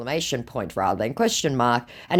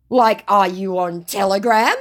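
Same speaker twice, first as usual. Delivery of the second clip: mock scammer voice; 7 semitones higher, 5 dB louder than usual. Woman reading the scammer's message aloud, in a high mock voice. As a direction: ham up the creepy flattery.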